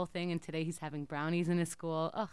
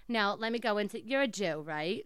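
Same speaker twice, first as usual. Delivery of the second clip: put-on Jewish accent. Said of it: "I'm gonna be in an accent".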